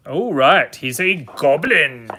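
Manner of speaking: put-on, over-the-top goblin voice; cartoonish goblin talk; playful goblin. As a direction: play it up as a hammy goblin. Goblin voice after saying name properly.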